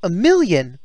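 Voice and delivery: high, sweet character voice; Surgeon Snake voice. Acted. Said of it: "That Surgeon Snake voice is hard to do".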